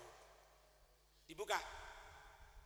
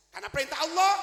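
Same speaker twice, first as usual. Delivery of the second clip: preaching emphasis; 3 semitones higher, 13 dB louder, faster than usual. Acted. Preacher stresses God's command.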